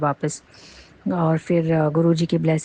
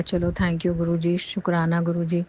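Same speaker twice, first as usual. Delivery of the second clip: slow grateful thanks. Real, not acted. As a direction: thank him slowly from the heart.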